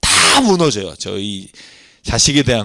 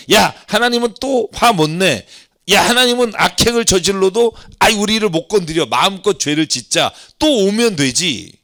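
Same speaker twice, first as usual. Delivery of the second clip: higher-pitched, lightly acted cocky talk; brazen sinners; 5 semitones higher than usual. Israelites egging each other on to sin freely, lightly acted brazen. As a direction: voice people sure they will get away with it. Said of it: "그랬더니 뭐라고 그러냐면".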